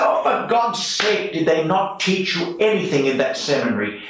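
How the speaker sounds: exasperated, high-pitched Irish priest; Donal, Irish accent. Retold or imitated. Old priest exasperated at what the seminary taught, Irish accent. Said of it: "I'm sorry to do the accent".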